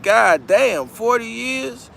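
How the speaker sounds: stunned disbelief at the sentence; shocked. Retold or imitated. Defendant hearing the forty-year offer, mock shocked disbelief. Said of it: "You looking like".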